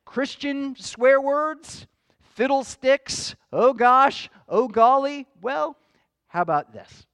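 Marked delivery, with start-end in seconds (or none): 2.3-3.3 mock exclamation. Mocking Christian swear words. 3.5-4.3 "gosh" hammed up, higher and much louder; mock exclamation. Preacher mocking a polite curse, "gosh" blurted out loud. Mocking Christian swear words. 4.5-5.2 mock exclamation. Mocking Christian swear words.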